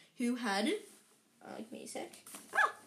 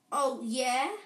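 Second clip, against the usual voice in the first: loud, challenging comeback with shaken bravado; attempted sneer; 6 dB louder than usual. A narrator's reading. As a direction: try to sneer while worried. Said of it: "trying to sneer".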